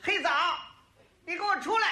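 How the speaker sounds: high-pitched mock yell of an angry wife; imitated spouse hollering in a rage. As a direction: call someone out across a yard, furious. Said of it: "我爱人气得在院儿里就喊呐".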